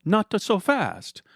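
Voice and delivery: slow menacing interruption; old man cutting in slowly; growled. Acted. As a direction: stop him with a slow warning. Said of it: "a voice growled".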